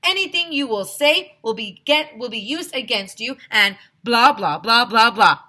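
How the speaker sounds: loud rattle through it, then blah blah; bored loud cop. A narrator's reading. Policeman reading rights dismissively.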